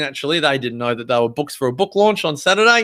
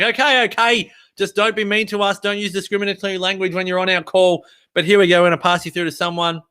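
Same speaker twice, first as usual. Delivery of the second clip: lightly voiced, higher-pitched phone menu; mock placating operator, pitched up; exasperated phone system; 5 semitones higher, faster than usual. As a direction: give in, as a fed-up phone line. Voicing the automated phone menu giving in.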